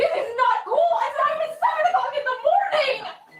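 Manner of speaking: very high-pitched, shrill yelling. Complaining to her mother during an early-morning police search: yelling. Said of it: "Why are you yelling at your".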